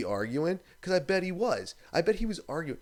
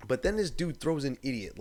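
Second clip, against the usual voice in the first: ordinary talk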